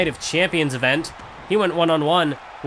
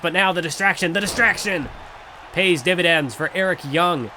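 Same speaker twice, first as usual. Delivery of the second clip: excited; 2 semitones higher than usual. Acted. Commentator calls a sudden turn.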